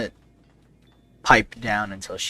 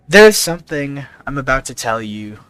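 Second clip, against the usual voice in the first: Pierre, earnest; 3 semitones higher, 3 dB louder than usual. Acted. Player speaks as Pierre to guard.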